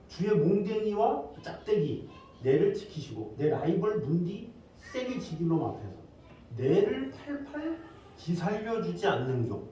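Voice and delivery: slow, high-pitched Gyeongsang dialect reading. Shown as a demonstration. Preacher demonstrates the Psalm's regional version in Gyeongsang dialect. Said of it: "경상도 버전이 있어요".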